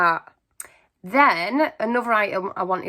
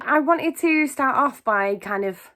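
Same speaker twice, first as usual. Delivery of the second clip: out of breath; 5 semitones higher than usual. Real, not acted. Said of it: "oh, I'm out of breath".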